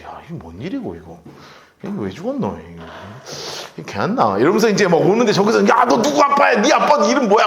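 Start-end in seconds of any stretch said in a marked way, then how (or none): 0.0-4.4 put-on low, soft dialect mutter of a baffled boy; bewildered boy. David carrying the head, baffled, muttering in dialect. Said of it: "지도 오면서 황당한 거지". 5.7-7.5 calling out. Retold or imitated. Soldier calling to the boy asking his father, raised call. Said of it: "막 물어보니까".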